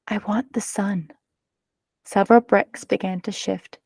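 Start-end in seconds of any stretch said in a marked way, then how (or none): 0.1-1.1 softer, hushed storybook line; a mild narrated whisper. A narrator's reading. Girl whispers to the wall, softly. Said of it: "Then she whispered".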